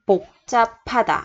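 복잡하다 with an aspirated p sound, puk-ja-pa-da; pronunciation demo. Shown as a demonstration. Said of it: "mình đọc là chữ p".

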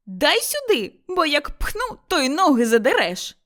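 high, angry threat; threatening yell. A narrator's reading. Mother-in-law threatening to shove Motria, high angry yell. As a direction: scream the threat at her. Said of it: "кричала Кайдашиха".

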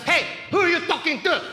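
hammed-up protective mother with an accent; mom confronting. Mom defending her kids to the salesman, mock-angry accented challenge. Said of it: "She was like".

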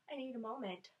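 big mock sigh, then composing herself; hammed-up sigh. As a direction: pretend to be overwhelmed. Pretending overcome by sad faces.

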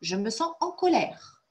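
emphatic mock anger for repeating; a teacher's demonstration of being cross; emotional anger demo. Shown as a demonstration. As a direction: lean into "colère" with acted feeling. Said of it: "répéter après moi avec beaucoup d'émotion".

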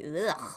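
drawn-out noise of disgust; recoiling "ugh". Acted. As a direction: groan "ugh" like a put-off onlooker. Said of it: "people are like".

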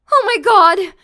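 shocked gasp. Acted. Siblings show up unexpectedly.

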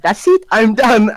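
retold end-of-tether declaration; mock exasperation. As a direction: imitate a teacher giving up in a huff. Teacher snapping and quitting, acted.

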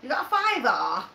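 imitated Mancunian question; Manchester accent. Shown as a demonstration. Host showing mate the voice, mock Manchester accent. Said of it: "Manchester accent".

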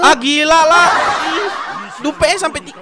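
high, laughing through the words; cracking up at a bad pull; laughing disbelief. Real, not acted. Laughing at duplicate pulls.

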